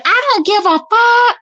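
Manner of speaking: high, loud, drawn-out mock outburst; imitating mad man. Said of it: "because he was mad".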